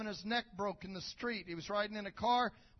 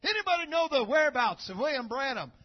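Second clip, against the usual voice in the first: calling out to crowd; 7 dB louder than usual. Retold or imitated. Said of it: "He said".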